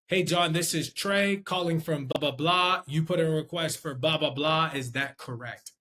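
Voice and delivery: clear, upbeat cold-call greeting; assured phone-rep pitch; confident sales opener. Shown as a demonstration. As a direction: open the call in full, sure voice. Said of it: "Sounds a lot different than".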